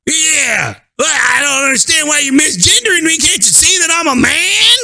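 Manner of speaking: slow, high, put-on indignant voice; mock telling customers off. Scolding the customers as her, hammed-up high indignation. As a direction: overplay the offended man demanding respect. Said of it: "I should automatically say to these people".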